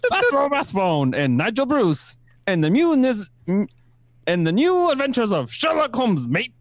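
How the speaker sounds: put-on Kiwi accent.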